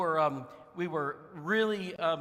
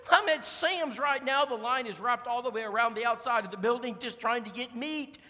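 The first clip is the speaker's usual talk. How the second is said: urgent sister; 5 semitones higher, 4 dB louder than usual. Retold or imitated. Sister urgently reports panic buying.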